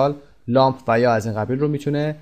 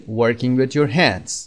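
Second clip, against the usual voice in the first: slow section title; much slower than usual. Shown as a demonstration. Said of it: "پارت A".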